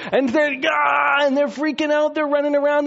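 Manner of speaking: high, loud panicked shout; imitating freaking out. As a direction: play the women's panic big and loud. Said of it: "freaking out world class".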